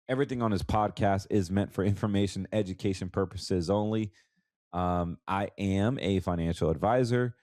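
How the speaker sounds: blocked nose from allergies; stuffy nose. Real, not acted. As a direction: talk through a stuffy nose. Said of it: "I sound funny with a bunch of allergies".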